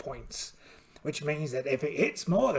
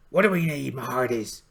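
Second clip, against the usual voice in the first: pirate voice; 5 semitones lower than usual. Acted. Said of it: "I'm gonna try and keep this voice up".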